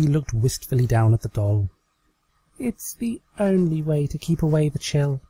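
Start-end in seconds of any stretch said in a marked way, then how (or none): 2.6-5.2 a little higher, wistful pretend line; wistful Trixie. Trixie looking down at her doll, slightly higher and wistful.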